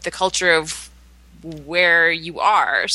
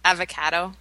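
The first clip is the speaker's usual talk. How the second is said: Canadian accent. Shown as a demonstration. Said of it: "Say that vegetable".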